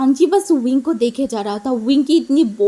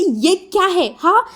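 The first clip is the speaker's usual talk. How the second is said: a touch of angry policeman, higher; mock angry; 4 semitones higher than usual. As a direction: sputter in mild mock outrage. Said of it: "बहुत गुस्सा आ गया था".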